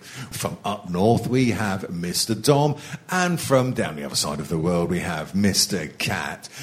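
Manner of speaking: a light northern English game show host; mock northern accent. Host greeting the contestants in a mock northern accent. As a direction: play a hammed-up northern host. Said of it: "put on a mock northern accent".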